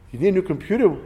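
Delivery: incredulous, as if that cannot be the whole answer; incredulous echo. Retold or imitated. Echoing the technician's verdict in disbelief. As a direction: repeat the verdict back as a rising, disbelieving question. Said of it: "So I said".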